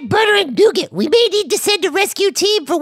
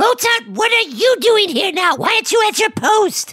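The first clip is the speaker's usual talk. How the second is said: sharp raised scold; scolding shout; 3 semitones higher than usual. Acted. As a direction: yell at him to get back. Scolding Mozart.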